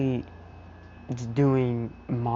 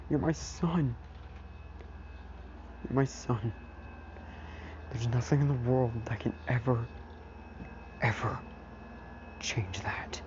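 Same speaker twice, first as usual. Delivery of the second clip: Aizawa; 7 dB quieter than usual. Retold or imitated. Aizawa reassures his crying son.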